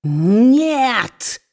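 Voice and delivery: dwarf roaring a refusal at his wife. A narrator's reading. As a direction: roar it at her. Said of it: "взревел Квилп".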